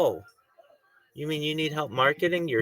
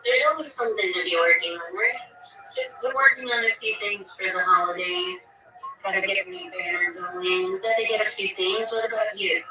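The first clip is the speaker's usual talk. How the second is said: other speaker; 6 semitones higher than usual. Real, not acted. Speaker on Twitter Space.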